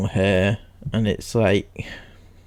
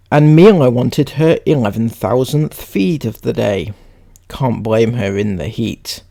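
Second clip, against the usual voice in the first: read-aloud; 5 dB louder than usual. Acted. Reads a post aloud.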